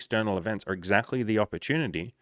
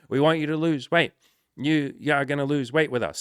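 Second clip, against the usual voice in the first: put-on excited kids; 6 semitones higher than usual. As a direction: bounce like excited little kids. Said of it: "we'll be like".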